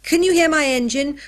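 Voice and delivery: put-on loud, high child shouting downstairs; boy yelling in play; excited yell. A narrator's reading. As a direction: call out over your own imaginary engine. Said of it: "yelled Tinker from the top of the stairs".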